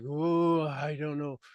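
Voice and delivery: soft, uneasy doubt; nervous. Shown as a demonstration. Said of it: "you're like".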